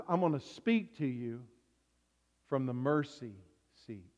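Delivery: a quiet, intimate whisper-close reading; soft, gentle voice of God. Shown as a demonstration. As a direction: speak it gently, the opposite of booming thunder. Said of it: "God doesn't say, "I'm gonna be a booming, thundering voice".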